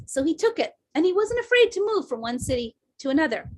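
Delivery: emphatic, lightly put-on Anglo-Indian accent; slight Anglo-Indian accent. Mom telling of her father's transfers, lightly imitated Anglo-Indian accent. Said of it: "that slight Anglo-Indian accent".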